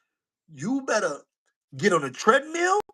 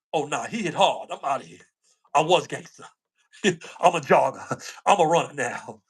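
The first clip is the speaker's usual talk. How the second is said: lightly voiced scared Artie; 6 semitones lower than usual.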